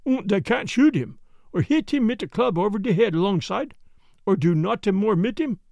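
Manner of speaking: put-on German accent. Jan's German-accented English.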